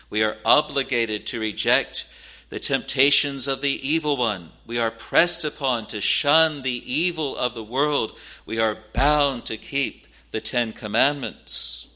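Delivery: emphatic pulpit exhortation; insistent, punched key words; forceful preaching. Real, not acted. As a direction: hammer each duty home with weight. Preacher lists binding duties forcefully.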